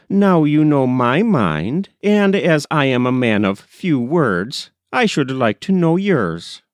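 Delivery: a hint of a blunt, hearty father figure; hearty working man. Foster voiced in read story.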